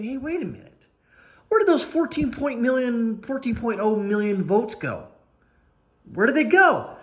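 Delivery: a hint of a paranoid whisperer; lightly mocked puzzled suspicion; mock suspicious voter. Mocking suspicious vote counters.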